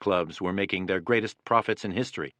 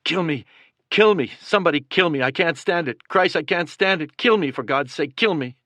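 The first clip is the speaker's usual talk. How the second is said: desperate pained screams, much higher and louder; screaming in agony; 6 semitones higher, 4 dB louder than usual. A narrator's reading. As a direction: beg for death through the pain. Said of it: "began screaming".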